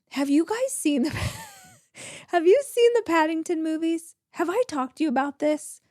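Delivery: laughing excitedly. Real, not acted. Gushing about Paddington.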